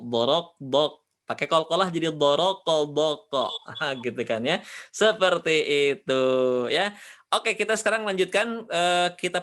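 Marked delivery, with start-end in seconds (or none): 0.0-3.5 slow, heavy dorok bok; mock heavy dha drill; joking heavy dorok. Shown as a demonstration. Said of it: "Pakai bo".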